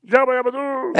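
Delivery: laughing Flintstone catchphrase; Pedro Picapiedra yell. Retold or imitated. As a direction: belt the catchphrase like Fred through a laugh. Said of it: "cómo gritaba Pedro Picapiedra".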